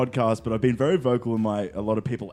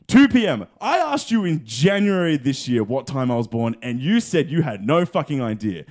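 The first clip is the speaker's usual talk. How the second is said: loud, high incredulous rant at his dad; retold angry outburst; 3 semitones higher, 5 dB louder than usual. Retelling his reaction to dad's birth time, exasperated shouting. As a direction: blow up at him in disbelief, shouting "Two P M". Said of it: "And I'm just like".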